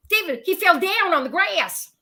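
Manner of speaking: imitating a Southern kid. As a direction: say it like a little Alabama boy. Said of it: "Like that".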